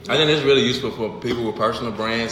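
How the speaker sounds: talking with a mouthful of food; words round a big bite, mouth full. Real, not acted. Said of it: "I'm talking with my mouth full again".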